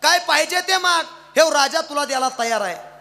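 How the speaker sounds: grand, excited king's voice; delighted king. Acted. Grateful king offers any reward.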